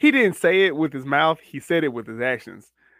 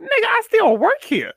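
much higher, louder put-on voice; indignant employee; 4 dB louder than usual. Bank worker telling the buyer he still works there, high and indignant. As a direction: squeak it out in disbelief.

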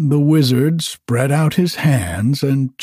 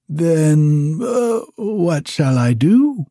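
higher, at-a-loss wizard voice; helpless wizard; 5 semitones higher, slower than usual. Acted. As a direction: plead for an answer.

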